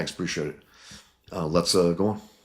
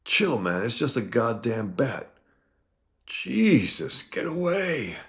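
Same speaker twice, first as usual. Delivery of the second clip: rising into a much higher, louder cry; panicked scream; 7 semitones higher, 3 dB louder, slower than usual. Acted. Mutant screaming at a bat, going high and loud. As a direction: shriek as the bat hits you. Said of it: "And he screams".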